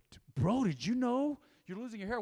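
lightly imitating a pushy bro; half-hearted mock bro voice. Retold people's blunt remark.

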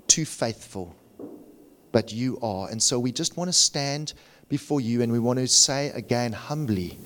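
earnest prayer, falling away at phrase ends; sincere pastor's prayer; congregational prayer. Real, not acted. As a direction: pray aloud for the people, with measured pauses.

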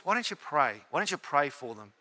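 a soft, gentle nudge, lightly voiced; quoting God's quiet prompt, barely pressed; small subtle voice. Preacher voicing God's quiet prompt to pray, softly. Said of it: "A very small, subtle voice".

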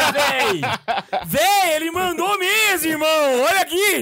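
cracking up and calling out; laughing excitedly. Real, not acted. Friend actually sent the message.

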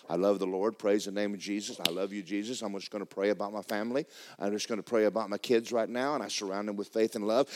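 easy, low-key happy praying; happy prayer. Acted. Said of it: "There's times you're walking around happy".

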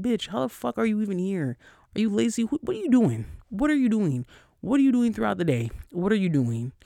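exasperated rant. Pretend. Ranting at a lazy coworker.

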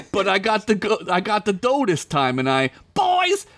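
high, pushy boss order; demanding Crinkles. Acted. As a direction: bark an insult-laden command. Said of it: "Crinkles demanded".

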